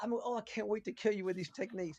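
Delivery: eager, excited, gleeful, playfully boastful tone. Retelling a friend's three a.m. phone call: imitating an excited friend. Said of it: "He was so excited".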